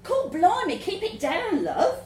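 urgent hushed scolding. A narrator's reading. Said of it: "the voice answers".

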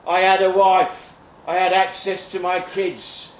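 bitter cult survivor. Acted. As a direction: spit out the grudge against the cult. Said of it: "Eric Jones, self-styled cult survivor".

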